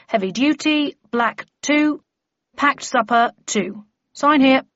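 measured storekeeper reading out an inventory; officious Wemmick. Acted. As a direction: itemise each article with deliberate pauses.

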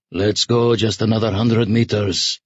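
mildly coaxing colonel's voice; gentle suggestion. A narrator's reading. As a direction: suggest it gently, as a small favour. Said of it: "suggested gently".

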